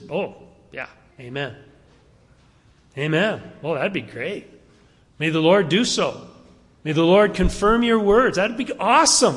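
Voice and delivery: open, mock, wholly insincere sarcasm. Retelling the prophet Jeremiah's reply to the prophet Hananiah: retelling Jeremiah's sarcasm. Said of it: "he's sarcastic".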